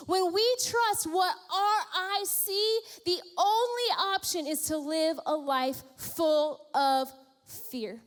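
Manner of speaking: impassioned preaching; preaching crescendo. Real, not acted. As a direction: build the listing with fervor. Building sermon climax.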